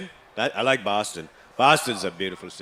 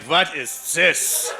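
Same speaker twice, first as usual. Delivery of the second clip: baffled dad; 6 semitones higher, 3 dB louder, much slower than usual. Retold or imitated. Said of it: "He's like".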